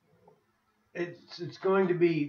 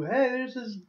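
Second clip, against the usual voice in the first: lightly raised, eager hype-man voice; hyped introducer; 6 semitones higher than usual. Retold or imitated. Friend introducing a foreign newcomer, mock hyped. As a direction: sell the new guy to the room. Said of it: "you're, like, a new".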